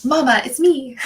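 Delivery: quoted through giggles, pitch lifted; laughing quote. Retold or imitated. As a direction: laugh while you say it as the character. Quoting a character, laughing.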